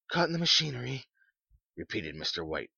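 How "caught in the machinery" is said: high, dazed echoing question. A narrator's reading. Mister White repeats the visitor's news, dazed. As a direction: repeat it as if unable to take it in. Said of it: "in a dazed fashion".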